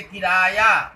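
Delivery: किराया with extra force on its क sound; stress on a syllable. Shown as a demonstration. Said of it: "क पर ज्यादा बल दिया".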